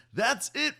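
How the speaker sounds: high, loud, delighted cheer. A narrator's reading. Friend cheering the boy's success, loud and high. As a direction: cheer him on with joy. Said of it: "Ronnie cheered".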